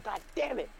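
high-pitched, fed-up teacher voice; exasperated teacher. Acted. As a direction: lament his arrival as a teacher at wits' end. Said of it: "she just hated Raymond".

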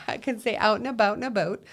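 quick demo of a Minnesota accent on "out and about in a boat". Shown as a demonstration. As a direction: show off the Minnesota vowels, fast and playful. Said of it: "you can hear my accent on some things".

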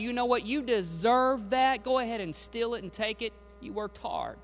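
tempting voice. Acted. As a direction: coax them like a tempter. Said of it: "God's voice isn't gonna tell you".

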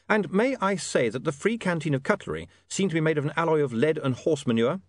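lightly voiced complaining customer; William.

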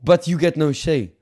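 hammed-up French accent, lightly put on; mock French accent. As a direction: play a pompous French negotiator in a mock accent. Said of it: "Fuck this French accent".

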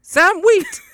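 very high, loud shout in a bad American accent; Oda Mae Brown, American accent. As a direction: holler the name in a hammed-up American accent. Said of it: "that's my bad American accent".

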